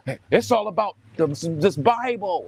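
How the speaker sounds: a hint of a cheesy church pitch; 1 mock preachy apologist. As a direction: parody the stock line of every apologist. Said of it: "we all talk the same. We go".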